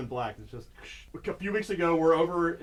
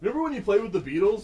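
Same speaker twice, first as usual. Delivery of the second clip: Chris Farley; 6 semitones higher, 4 dB louder, faster than usual. Acted. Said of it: "I feel like, uh, Chris Farley".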